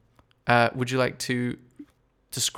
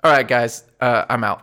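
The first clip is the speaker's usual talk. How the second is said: fed up; 5 dB louder than usual. Acted. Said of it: "And he says".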